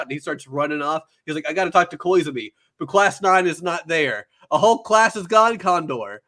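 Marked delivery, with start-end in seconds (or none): 1.5-6.2 louder, higher mock alarm; acted panic. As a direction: build an imitated frantic outburst.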